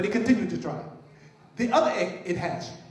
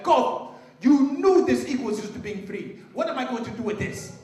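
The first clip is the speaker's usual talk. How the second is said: loud, high, angry scolding of his brother; upset shout; 4 semitones higher, 5 dB louder than usual. Acted. Upset farmer scolding his brother, loud and high. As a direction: bark it at him, furious. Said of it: "Kwesi became very upset".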